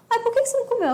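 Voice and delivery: high-pitched imitation of a fussing adult; mock pestering. Adults questioning a child who didn't eat, mock pestering.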